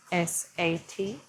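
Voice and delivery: S A T, each letter said slowly and separately; S A T spelled slowly for the class. Shown as a demonstration. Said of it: "thinking quietly to yourself".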